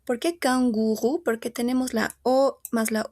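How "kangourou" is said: "canguro" said the French way, kan-gu-RU; French kangourou with both OU spellings as U. Shown as a demonstration. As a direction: end "canguro" on an oo sound. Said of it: "la O más la U es la U".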